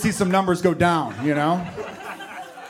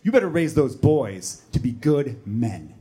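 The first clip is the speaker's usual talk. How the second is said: lecturing woman; 5 semitones lower than usual. Retold or imitated. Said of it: "she's like".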